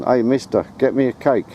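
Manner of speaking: high-pitched mock child's yell; kids shouting. Kids shouting up at man on ladders, mock child voice. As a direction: imitate a cheeky kid calling up the ladder. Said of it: "and shouting".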